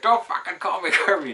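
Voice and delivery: hammed-up angry friend; imitating angry friend. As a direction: mimic him snapping at the nickname. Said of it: "He's like".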